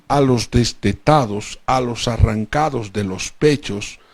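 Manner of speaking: "a los arrancados de los pechos" ringing out with a falling close; proclaiming. Acted. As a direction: announce it from the pulpit. Scripture read aloud.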